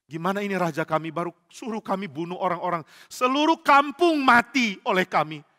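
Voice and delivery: dismay building to a loud, high cry; dismayed soldiers. Acted. Soldiers lamenting their king's order, dismayed.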